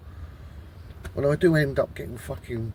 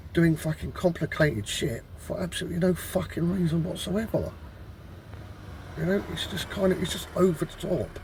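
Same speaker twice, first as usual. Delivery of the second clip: irritated, sweary venting, slightly raised pitch; annoyed; 2 semitones higher than usual. Real, not acted. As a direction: throw out exasperated questions, truly fed up. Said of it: "I'm getting annoyed".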